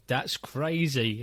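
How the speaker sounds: slow, worn-out "That's crazy"; flat stock response, stretched out slowly; bored repeated reply. Retold or imitated. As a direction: drag it out like the tenth time today. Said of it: "you're on your tenth".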